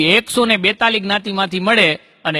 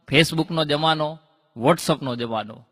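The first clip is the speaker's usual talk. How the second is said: slowing and dropping to a much softer, lower voice; trailing off into a low murmur; fading away; 4 semitones lower, 6 dB quieter, much slower than usual. Acted. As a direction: let it die away slowly. Comic fading list.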